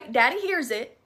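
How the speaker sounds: a slip into a Southern accent on "Daddy hears it"; unplanned Southern accent. Real, not acted. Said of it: "Ew, that was so Southern".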